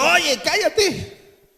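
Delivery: high, very slow, hammed-up hush; mock-scold him to stop; retold scolding. Pastor retells hushing a praying brother, mock-scolding.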